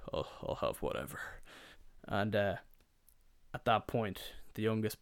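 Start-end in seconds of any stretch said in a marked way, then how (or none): 0.1-1.2 low, softer dad voice; resigned dad. Retold or imitated. Dad ordering last at the table, low and indifferent. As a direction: give in quietly, pitched well down.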